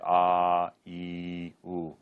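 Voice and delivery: a, e, u held as "aaa, eee, ooo"; long vowels. Shown as a demonstration. Teacher giving examples of long vowels, held a, e, u. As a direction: sustain each vowel a, e, u equally. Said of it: "pronounced like long vowels".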